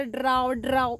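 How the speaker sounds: croaks like a frog, "ड्राव ड्राव"; frog croak imitation. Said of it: "बेडकांचा आवाज येतो". (बेडकाचा आवाज काढत)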